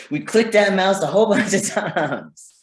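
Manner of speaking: high, hammed-up burst of frustration; playfully exaggerated frantic outburst; mock frantic exasperation. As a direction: escalate into comic desperation. Acting out frantic extinction burst.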